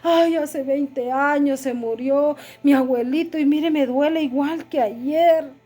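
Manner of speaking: grieving lament. Retold or imitated. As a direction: drag the words as if the loss were yesterday. Grieving person quoted, still denying.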